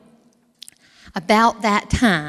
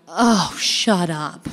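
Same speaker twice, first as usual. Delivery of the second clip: stern daddy voice; much slower than usual. Retold or imitated. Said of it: "I got a strict daddy".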